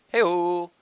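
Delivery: high, loud whoop; playful whoop. Pretend. Player goofing around as the body slides, playful whoop. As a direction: call it out high and long. Clowning over sliding enemy model.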